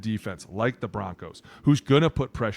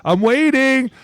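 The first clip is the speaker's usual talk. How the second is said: higher, slow, impatient mock prod; 11 semitones higher, 6 dB louder, much slower than usual. Co-host mocks his reaction to calm quarterback, higher and impatient. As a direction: hurry up, I'm waiting. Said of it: "it is so calm that it's like".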